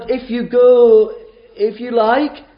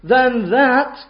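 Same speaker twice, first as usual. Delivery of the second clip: voicing Jesus; 5 semitones higher, slower than usual. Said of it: "he says".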